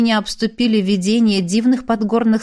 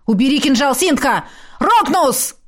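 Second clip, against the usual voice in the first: urgent shout; 4 semitones higher than usual. Acted. Hero shouts during fight.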